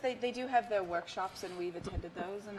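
put-on London accent. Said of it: "My accent's going in and out".

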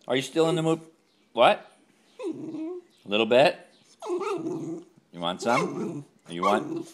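high, loud, drawn-out coaxing; high slow pet-voice questions. Real, not acted. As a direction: tease the dog with a treat. Teasing dog, high loud.

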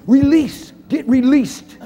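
loud, high call to release; preaching shout. Real, not acted. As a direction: cry it out to the congregation. Preacher exhorting crowd.

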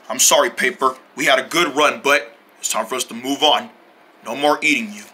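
soft low mournful goodbye; sad farewell. Acted. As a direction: bid a tearful farewell.

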